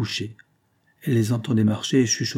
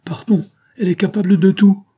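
hushed, high whisper of alarm; a scared aside under the breath; frightened whisper; 9 semitones higher, 8 dB louder than usual. A narrator's reading. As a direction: whisper it while backing away. Fleeing aunt whispers in fright.

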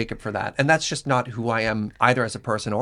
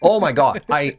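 normal talking voice

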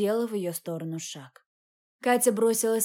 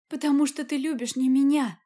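higher and louder, tearful outburst; blurted out; 5 semitones higher, 4 dB louder than usual. A narrator's reading. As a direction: fire it back at him through tears. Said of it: "выпалила Катя".

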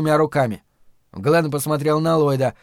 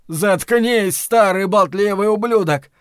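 high, raised angry cry; shouting; 6 semitones higher, 5 dB louder, slower than usual. A narrator's reading. Lloyd silencing the man he is shooting, shouting. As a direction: lash out to silence him. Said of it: "прокричал Ллойд".

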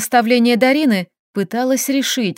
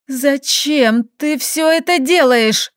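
hoarse croak; 3 semitones higher, slower than usual. Acted. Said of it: "прохрипела я".

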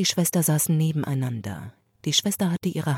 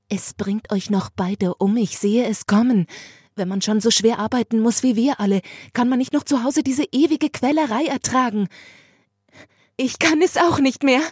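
rising, louder, higher until she breaks; breaking into tears; 6 semitones higher, 4 dB louder than usual. Acted. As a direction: build from weary to near tears. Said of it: "sie brach so heftig in Weinen aus".

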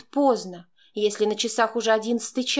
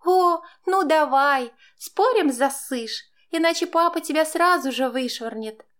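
taunting; 6 semitones higher than usual. Acted. Stepdaughter jeers, daring stepmother to hit her. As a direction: dare her, jeering.

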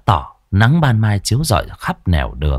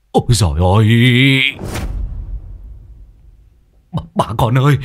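terrified whimper; 3 semitones higher, much faster than usual. A narrator's reading. Old Đinh crawling back from a corpse, terrified cry. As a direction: whimper out in horror. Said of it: "mà mếu máo".

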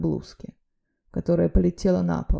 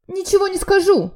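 much higher, loud shriek; shrieking woman; 13 semitones higher, 7 dB louder than usual. A narrator's reading. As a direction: shriek in defiance, jumping up. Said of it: "заверещала она". (визгливый женский крик)

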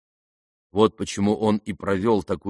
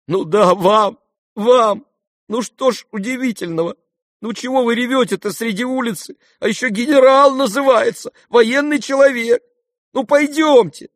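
put-on high, loud impatient boy's scolding; Kolya, exasperated; 13 semitones higher, 5 dB louder than usual. A narrator's reading. Kolya scolds his crying father to come along, high and loud.

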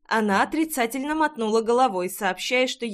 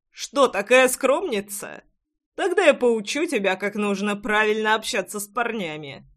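mocking. Pushy guy mocks her.

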